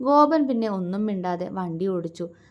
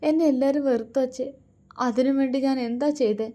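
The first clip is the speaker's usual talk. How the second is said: rising, lightly tearful complaint; a hint of sobbing, asking why; mild weeping plea to her father; 4 semitones higher than usual. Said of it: "തേങ്ങലോടെ".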